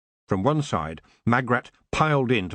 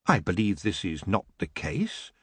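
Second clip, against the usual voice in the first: softer, steady and unruffled; calm; 4 semitones lower, 4 dB quieter than usual. Acted. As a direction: keep it soft and level to defuse him. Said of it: "Geoffrey calmly said".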